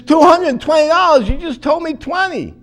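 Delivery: mock the shocked customer; outraged disbelief. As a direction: friend balking at the vet bill, in mock outrage. Friend outraged at vet bill.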